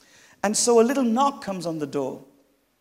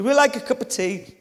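lightly put-on Brummie, pitched up; higher voice with a touch of Brummie; Brummie accent; 6 semitones higher than usual. Girl repeats her offer of tea, in a light Brummie accent. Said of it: "That's a Brummie accent".

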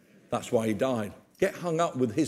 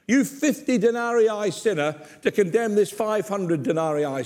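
stern rebuke; 4 semitones higher than usual. Acted. Jesus rebukes Simon, acted.

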